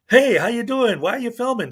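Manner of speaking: mock friendly high greeting, then demanding; mock auditor. Mocking the auditor confronting a stranger. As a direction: ape the auditor's fake nice opener. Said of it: "he just like".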